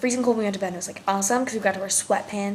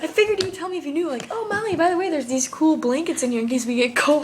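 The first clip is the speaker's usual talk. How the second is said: high mock voice; 6 semitones higher than usual. Mock-quoting her friend.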